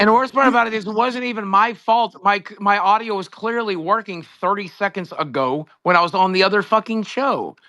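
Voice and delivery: worked-up gripe; exasperated. Real, not acted. Complaining the failure wasn't his fault.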